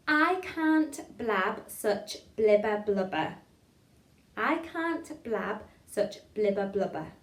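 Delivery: very slow, separated, crisp words; tongue-twister demo. Shown as a demonstration. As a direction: spell it out word by word for learners. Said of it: "first line".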